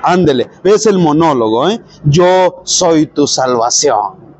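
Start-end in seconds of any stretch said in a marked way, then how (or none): 2.1-4.3 very slow, solemn declaration; God answering. Acted. God to the psalmist, slow and assuring. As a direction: draw out each word as a divine promise. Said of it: "y a mí me dices".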